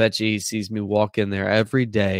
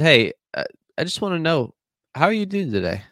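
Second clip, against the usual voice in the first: cheerful greeting; 7 semitones higher than usual. Retold or imitated.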